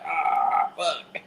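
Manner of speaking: soft, drawn-out retold groan; resigned mock groan. Voicing the man stuck in the wall, softly resigned. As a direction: let it out quietly, stuck and giving up.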